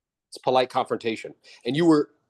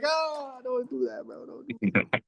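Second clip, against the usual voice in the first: high and softer, half-pleading; hushed mock plea; 10 semitones higher, 5 dB quieter, slower than usual. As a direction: beg him under your breath, mock dismay. Coach pleading with trainee.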